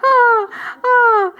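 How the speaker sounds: high, tearful breaking oh; proud friend overcome, crying with joy; choking up. Real, not acted. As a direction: voice cracking with emotion. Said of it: "I'm gonna try not to cry".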